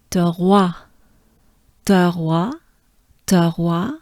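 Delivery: trois with a breathy R, TWAH; French trois. Shown as a demonstration. Teacher drills trois slowly for learners. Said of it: "Good breath".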